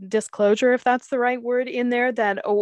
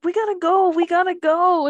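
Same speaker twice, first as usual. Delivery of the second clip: high, louder rushed voice; mock hurried Butch; 10 semitones higher, 4 dB louder than usual. Retelling the motorcycle scene, rushing girlfriend, high mock voice. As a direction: chirp it out, urging her to hurry. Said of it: "He's like".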